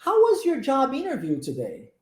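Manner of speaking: measured language-teacher model reading in English; model sentence for repetition. Shown as a demonstration. Teacher models the question for students to repeat, clear demonstration. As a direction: say it clearly for learners to echo. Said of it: "eu vou falar a frase pra você".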